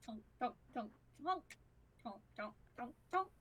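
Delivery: soft, spaced-out tonks; tonking footsteps. Acted. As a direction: imitate an old man's plodding steps. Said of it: "he's just very tonk".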